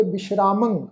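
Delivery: ਵਿਸ਼ਰਾਮੰ whispered with sh and a nasal end; whispered pronunciation. Shown as a demonstration. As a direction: breathe ਵਿਸ਼ਰਾਮੰ out, stressing the sh. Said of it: "ਬਿੰਦੀ ਲਗਾ ਕੇ ਪਾਠ ਉਚਾਰਨ ਕਰਾਂਗੇ".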